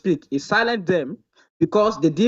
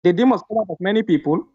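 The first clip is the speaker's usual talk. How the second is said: reading fast. Real, not acted. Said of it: "Don't, don't speak fast".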